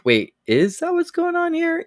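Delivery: high, puzzled double take; mock suspicion. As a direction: raise the pitch in a bewildered question. Own doubt voiced as quote.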